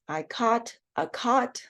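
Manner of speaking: slow demo, CAUGHT and COT both "kaht"; merged vowel. Shown as a demonstration. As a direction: West Coast CAUGHT identical to COT, open 'ah'. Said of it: "I would pronounce this sentence".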